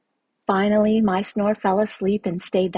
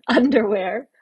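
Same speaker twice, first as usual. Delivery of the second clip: giggling; 3 semitones higher, 3 dB louder than usual. Acted. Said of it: "I giggled".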